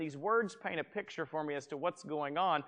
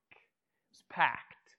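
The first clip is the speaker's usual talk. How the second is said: slow, drawn-out packed; emphatic repeat; much slower than usual. Shown as a demonstration. Pastor repeating "packed" slowly for his congregation to picture it. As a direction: stretch out packed to paint the crowd.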